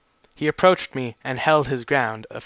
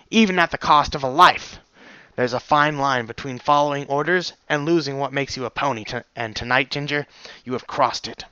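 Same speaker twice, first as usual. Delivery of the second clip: stern reprimand. Acted. Stallion reprimands guard.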